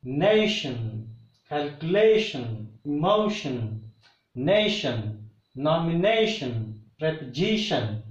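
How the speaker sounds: "nation, calculation, emotion, nomination, preposition", each strong just before the final -tion; word list like NA-tion, calcu-LA-tion, e-MO-tion, each a separate falling beat; stress second-last syllable. Shown as a demonstration. Teacher drills words ending in ION, stressing the second-last syllable. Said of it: "always stress goes on second syllable from the last".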